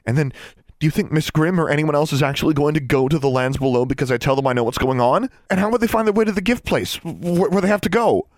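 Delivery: high, loud tirade climbing in pitch; frantic. A narrator's reading. Alexandra pleads that Innocence is going to die, frantic. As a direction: build from agitated argument to desperate cry.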